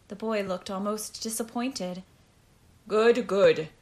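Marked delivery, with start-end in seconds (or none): 2.9-3.7 loud, brisk impatience; impatient. A narrator's reading. Captain moving the test along, impatiently. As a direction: push past it impatiently. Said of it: "Hoda said impatiently".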